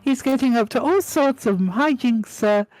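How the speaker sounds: high timid elf squeak; small eager elf introducing herself; house elf voice. Acted. Winky greets Harry, high timid squeak. Winky retells scolding Dobby.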